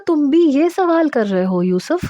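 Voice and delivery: a voiced disbelief at his question; surprised. A narrator's reading. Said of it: "میں نے اسے حیرت سے دیکھا".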